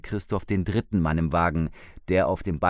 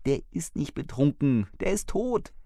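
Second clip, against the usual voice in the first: higher, a hint of an anxious wife; lightly voiced frightened older woman; 7 semitones higher than usual. Wife reports the dead man to husband, lightly anxious. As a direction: let a shaken woman report it.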